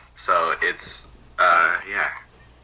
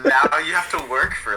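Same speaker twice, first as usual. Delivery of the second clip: higher, laughing through the words; laughing tease; 8 semitones higher than usual. Real, not acted. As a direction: rib him back while laughing. Guest laughs teasing back.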